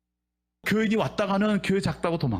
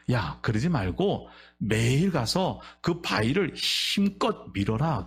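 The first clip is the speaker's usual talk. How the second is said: God's voice; 5 semitones lower, slower than usual. Acted. God's voice in a sermon story.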